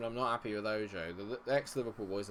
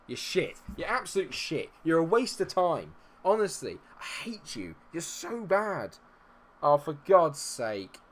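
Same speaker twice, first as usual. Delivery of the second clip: higher, louder insults, slowing at the end; angry rant; 7 semitones higher, 8 dB louder than usual. Real, not acted. Gamer rants at his own striker, higher and louder. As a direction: berate your useless player.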